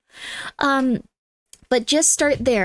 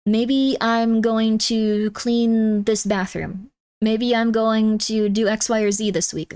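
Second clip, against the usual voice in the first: slow musing; much slower than usual. Shown as a demonstration. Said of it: "demonstrating slow planning".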